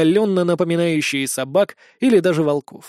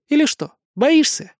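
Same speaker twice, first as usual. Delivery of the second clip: sarcastic; 9 semitones higher, 3 dB louder than usual. A narrator's reading. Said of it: "с ехидством ответила она".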